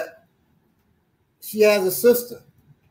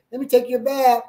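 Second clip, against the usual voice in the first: wife's phrasing; 7 semitones higher, faster than usual. Retold or imitated. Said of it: "She'd say to my son".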